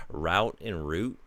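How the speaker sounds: "route and root" said slowly, each vowel held; pronunciation contrast. Shown as a demonstration. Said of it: "it's like".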